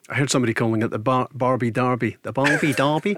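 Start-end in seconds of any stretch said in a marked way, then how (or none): 2.2-3.2 attempted Australian accent. Presenter joking about the homecoming fixture's nickname, attempted Australian accent. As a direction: have a playful go at an Australian accent. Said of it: "If I could do an Australian accent".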